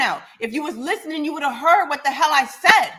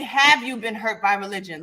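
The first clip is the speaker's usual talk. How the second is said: "Have you been" said lower, as the proper version; corrected phrasing; 5 semitones lower than usual. Shown as a demonstration. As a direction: model the correct question pointedly. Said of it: "rephrase that and say".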